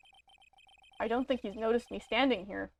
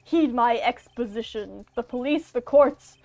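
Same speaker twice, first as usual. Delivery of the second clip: lightly voiced theatrical villain, slowing on the speech; a hint of a grand, smug game villain; gloating villain; 6 dB louder than usual. Villain lording his power over the attorney, hammed-up.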